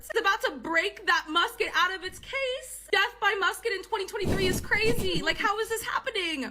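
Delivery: high-pitched incredulous inner monologue; panicked disbelief. Retold or imitated. Woman imagining her death by musket, high incredulous panic.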